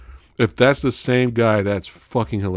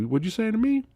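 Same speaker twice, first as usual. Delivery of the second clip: menacing wrestler; 13 semitones higher than usual. Retold or imitated. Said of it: "He's like".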